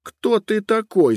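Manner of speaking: put-on angry girl shouting at a herd boy. A narrator's reading. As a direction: yell at the impudent boy. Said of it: "закричала она".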